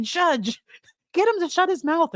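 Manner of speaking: high-pitched plea, only pretending to yell; mock yell. Prosecution appealing to the judge, high-pitched mock yell. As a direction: play an exasperated yell without the volume. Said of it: "I think the prosecution yells".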